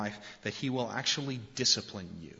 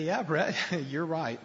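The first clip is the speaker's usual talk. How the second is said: higher, louder, laughing through it; laughing admission; 6 semitones higher, 3 dB louder than usual. Real, not acted. Father conceding to his young son, laughing. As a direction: laugh sheepishly as you concede.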